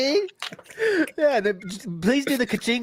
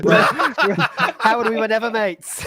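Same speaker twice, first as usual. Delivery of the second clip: mock American bro voice; 5 semitones higher, 4 dB louder than usual. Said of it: "I said".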